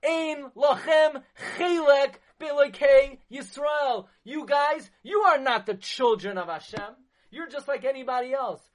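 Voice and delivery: loud, high jeering voice of the Greeks; mock the Jews as the scornful enemy; taunting enemy. Preacher voicing the Greeks' scornful taunt to the Jews, loud and high. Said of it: "But the Yevanim said".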